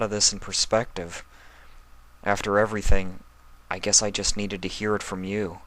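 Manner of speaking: lightly voiced young dragon, weary and bitter; a hint of a tired, hurt boy; Spike voice.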